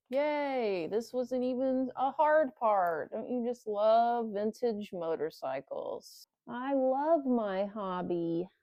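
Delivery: slow, mock-cheerful sarcasm; sarcastic cheer. Real, not acted. Fed-up mechanic tells viewers he loves it, sarcastic. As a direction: fake delight through frustration. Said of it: "can't tell from my happy-go-lucky demeanor".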